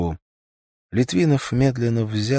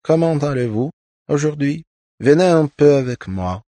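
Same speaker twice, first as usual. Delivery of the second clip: duchess; 7 semitones higher, 5 dB louder than usual. A narrator's reading. Duchess speaks French.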